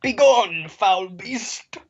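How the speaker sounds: booming heroic banishing cry; Hercules. Acted. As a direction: declaim it like a mock-epic hero. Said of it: "I'm dressed up as Hercules".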